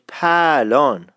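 slow پهلان as "paa-lon"; Isfahani dialect form. Shown as a demonstration. Teacher shows how pahlevan changes, slow Isfahani form. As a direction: drop the "h" in پهلان, lengthen the vowel.

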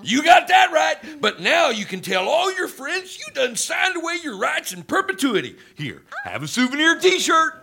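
put-on hammy frontier old-timer voice; lightly voiced old prospector. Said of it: "your old prospector thing".

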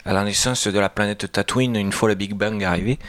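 put-on light southern French accent. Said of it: "pourquoi je prends cet accent du Sud".

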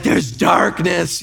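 slow, drawn-out dread; imitated terrified child. Six-year-old pointing at a dark bedroom, mock terror. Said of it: "he's terrified".

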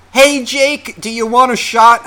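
high-pitched imitation of a bar heckler; mimicked call-out. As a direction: call out like an over-eager drinker. Imitates woman calling out to him.

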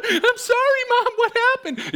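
very high, loud, slow frightened squeak; small son pleading with his screaming mom, very high; scared kid. Retold or imitated. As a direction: plead like a terrified little boy. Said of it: "I'm like".

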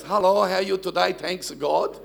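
imitating dad's Italian accent; mild Italian accent. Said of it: "he still talk like that".

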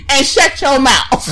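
lightly imitated wrestler catchphrase; The Rock. Host finishing a catchphrase at friends, light wrestler impression. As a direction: finish the mock promo, amused. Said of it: "That's what The Rock said".

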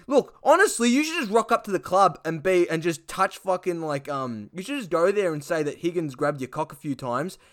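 high, brash mock footy bloke; Duck's voice. Duck giving Rance dodgy advice, high cocky voice.

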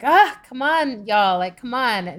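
loud, high, slow call of frustration; exasperated rallying cry, loud and drawn out; mock shout. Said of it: "shouting out".

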